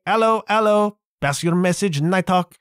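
high-pitched mock radio call; wireless radio caller. Imitating the sitcom characters answering the radio, high mock caller voice. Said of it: "we gotta get to the radio".

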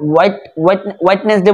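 হোয়াইটনেস ডে as "wait-nes-de", all parts sounded; common mispronunciation. Shown as a demonstration. Teacher quoting what people say, mispronounced. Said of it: "এটা ভুল উচ্চারণ".

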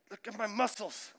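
put-on excited little boy calling dad; son showing off. Four-year-old son shows dad his muscles, eager call. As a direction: kid proudly demanding dad look.

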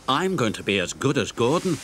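lightly eager engine. Acted. Emily tells Thomas, mildly eager. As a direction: say it keen but understated. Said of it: "she said eagerly".

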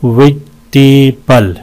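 "वेजिटेबल" slowly, in three chunks; syllable breakdown. Shown as a demonstration. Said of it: "चार हैं इसमें". ("वेजिटेबल" टुकड़ों में धीरे)

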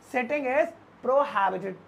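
very slow whole phrase; slow demo. Shown as a demonstration. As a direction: stretch it out for learners. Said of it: "इसको हम बोलेंगे". (बहुत धीरे पूरा वाक्य)

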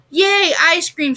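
high, drawn-out cheer, only mildly screeched; excited screech. A narrator's reading. Ethan cheers at the ice cream offer, mild screech. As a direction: cheer slowly with a high-pitched yay. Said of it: "screeched Ethan".

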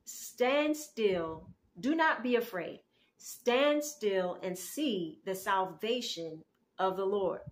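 slow, emphatic scripture quote; scripture proclamation. Acted. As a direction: proclaim it slowly, leaning on key words. Proclaims Moses' words from scripture.

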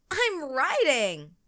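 high, slow, loud I'm riding; shouted. A narrator's reading. Katie riding the horse, proud shout. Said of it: "shouted Katie".

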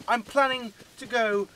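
odd put-on voice. Real, not acted. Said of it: "I don't know why I'm talking like this".

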